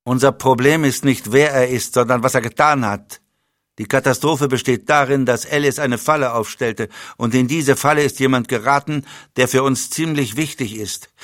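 briefing with cold authority; dry commanding spymaster. Acted. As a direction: spymaster lays out the disaster to his agent. Leblanc's held voice.

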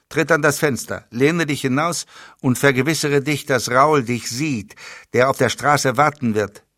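briefing with cold authority; dry commanding spymaster. Acted. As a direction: spymaster lays out the disaster to his agent. Leblanc's held voice.

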